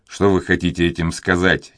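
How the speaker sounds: plain reading voice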